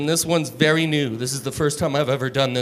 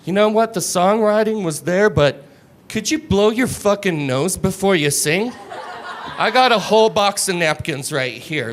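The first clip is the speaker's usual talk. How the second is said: talent-show judge; 4 semitones higher than usual. Retold or imitated. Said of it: "an impression of me if I was a judge".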